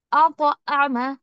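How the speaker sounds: अतअम drawn out slowly with a bounce on the त; slow qalqala recitation. Shown as a demonstration. Teacher showing students the bounce, slow and deliberate. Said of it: "आवाज में एक तरीके की bouncing".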